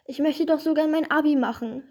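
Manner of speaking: lightly voiced tearful complaint; sobbing. Coronita tells the stranger her woes, mildly sobbing. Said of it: "schluchzte Coronita".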